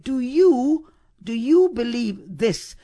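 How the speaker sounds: restarted question landing on "this"; stress on THIS. Shown as a demonstration. Preacher repeats the third way of asking, stress on THIS. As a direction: point the question at "this". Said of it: "either on you or on believe or on this".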